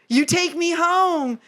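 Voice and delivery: lightly voiced Eurydice. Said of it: "And she's like".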